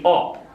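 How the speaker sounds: OP with a short O, as in hop; short vowel sound. Shown as a demonstration. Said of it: "making it a short sound".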